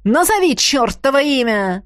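loud, pushing witch yell; screaming witch. Acted. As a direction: break into a shriek. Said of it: "Она сорвалась на крик".

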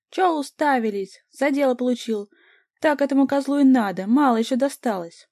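high, loud, furious yelling at the onlookers; crazed screaming. A narrator's reading. Vika screams at the gawking café customers, crazed and loud. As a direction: scream it like a madwoman. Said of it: "А Вика вопила, как безумная".

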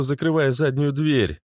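plain reading voice

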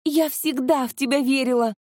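lightly voiced adoring fiancée; gushing girlfriend. A narrator's reading. Keeps acting the adoring girlfriend.

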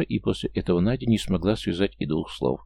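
usual speaking voice

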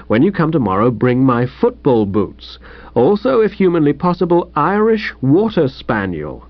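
bright, lightly puzzled reading aloud; the young master reads the wire aloud; Bertie reading the telegram. Acted. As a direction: read it out like a baffling note. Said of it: "I'll read it to you".

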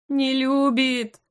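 drawn-out tearful wail. A narrator's reading. Heroine wailing to her elf friend, slow tearful wail. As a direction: wail it slowly, near sobbing. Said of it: "завыла".

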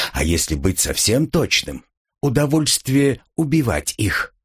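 ordinary delivery

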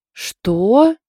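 outraged high-pitched loud "what?"; loud indignant yelp. A narrator's reading. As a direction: bristle with indignation. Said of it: "возмутилась Эндж".

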